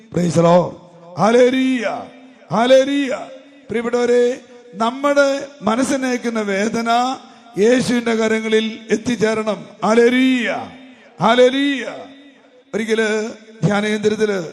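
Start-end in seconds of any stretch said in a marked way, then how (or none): 0.1-3.3 preacher's praise call. Real, not acted. 9.9-11.9 preacher's praise call. Real, not acted.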